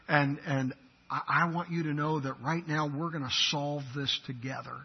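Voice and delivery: gracious reassurance. Acted. Husband making peace with his wife mid-argument, gently gracious. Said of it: "That's bestowing graciousness".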